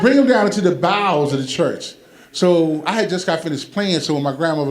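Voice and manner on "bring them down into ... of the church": pastor talk. Retold or imitated. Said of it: "that ecclesiastical talk".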